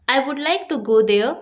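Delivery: very slow, carefully spaced English words; slow teaching demo. Shown as a demonstration. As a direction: dictate it word by word to a learner. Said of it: "example देखिए".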